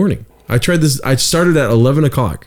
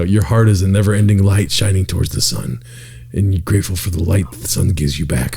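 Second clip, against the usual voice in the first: softer, lulling meditation voice; soothing guru; 4 semitones lower, 3 dB quieter than usual. Retold or imitated. Friend imitating the sleep guru's soft lines. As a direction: lay it on like a gentle spiritual guide. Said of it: "He was like".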